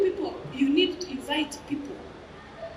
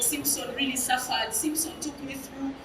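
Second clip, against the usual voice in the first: imitated crying; 2 semitones lower, 7 dB quieter than usual. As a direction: softly act out his grief. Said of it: "and he's crying".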